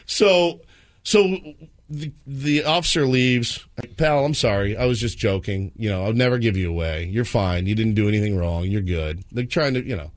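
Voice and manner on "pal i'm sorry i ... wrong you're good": lower-pitched calming apology; reassuring dad. Retold or imitated. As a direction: talk an upset child down. Dad reassures frightened son.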